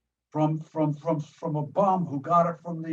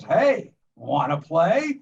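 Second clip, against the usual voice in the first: hint of an eager killer doll, drawn out; lightly voiced doll, slow with a rising lilt; doll's line; 4 dB louder, slower than usual. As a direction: stretch it like a creepy invitation to play. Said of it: "looks up at her and says".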